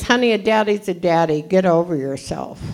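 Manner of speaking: a hint of a blunt old Texan woman; dismissive, no-nonsense mock; old-timer's put-down. Old-timer Lois brushing her off, in a light blunt voice. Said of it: "she says".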